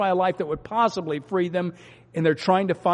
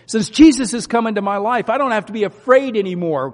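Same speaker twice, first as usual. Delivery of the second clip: eager testimony; 6 semitones higher, 6 dB louder than usual. Shown as a demonstration. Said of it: "Could you imagine giving that message on the streets".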